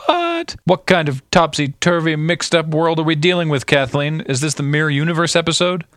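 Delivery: high-pitched, exaggerated astonishment; mock incredulity. Host reacting to co-host about the plot twist, mock incredulous.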